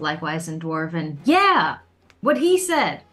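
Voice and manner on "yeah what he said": shouting, higher and louder. A player's character answers another character's retort, shouting. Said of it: "Dione hears Rufus's retort and shouts".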